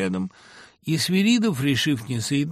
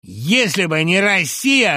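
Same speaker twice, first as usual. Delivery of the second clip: louder, higher, slow menacing line; aggressive start; 7 semitones higher, 9 dB louder, slower than usual. A narrator's reading. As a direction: lean in on them with a threat. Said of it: "агрессивно начал приплюснутый".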